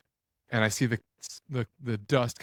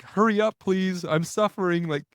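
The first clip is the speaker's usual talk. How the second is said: voicing the deer; 8 semitones higher, 4 dB louder than usual.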